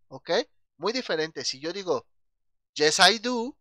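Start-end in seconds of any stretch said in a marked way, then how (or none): 2.7-3.6 "yes I do" fuerte, agudo y bien articulado; pronunciación modelo. Shown as a demonstration. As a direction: modela "yes I do" para la clase. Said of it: "escuchen cómo suena". ("yes I do" enfático, de maestro de inglés)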